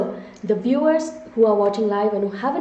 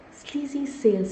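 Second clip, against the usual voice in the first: "Sleazy sales" repeated with a touch of distaste, softer; 4 semitones higher, 4 dB quieter than usual. Real, not acted. Webinar host recoiling from the phrase for viewers, slight distaste. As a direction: let the words taste bad as you repeat them. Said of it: "See, I can't even say that word".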